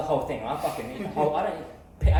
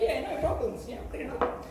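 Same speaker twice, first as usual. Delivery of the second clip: much higher, chirpy mock kid, fading to a whisper; a lightly voiced kid, breathy at the end; eager kid voice; 9 semitones higher, 5 dB quieter than usual. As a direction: play the keen young kid agreeing. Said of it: "And the kid was like".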